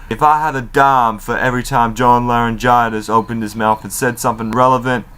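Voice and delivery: a hint of a cocky trash-talker; imitating Enzo. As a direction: smirk through the insult. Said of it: "pretty much Enzo says".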